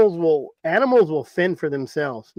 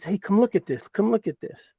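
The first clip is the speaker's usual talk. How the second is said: retold excited call, pitched higher; mildly excited; 4 semitones higher than usual. Brother calling him over to see his find, mildly excited. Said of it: "and he's excited".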